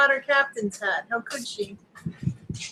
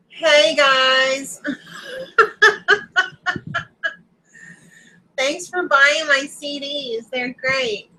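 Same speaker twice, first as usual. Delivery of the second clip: lightly imitated pop star greeting fans; a touch of celebrity impression, drawn-out opening; 3 semitones higher, slower than usual. Shown as a demonstration. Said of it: "I already did the Demi Lovato".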